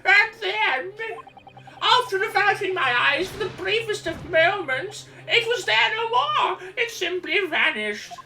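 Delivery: put-on old man voice. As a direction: play a dotty old man. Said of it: "that old man voice".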